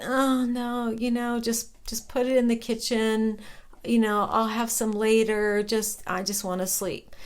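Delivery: soft, trailing sleepy refusal; imitating groggy reluctance. Groggy man turns down cake from his friend, mildly sleepy. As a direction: lightly act out someone too drowsy to bother.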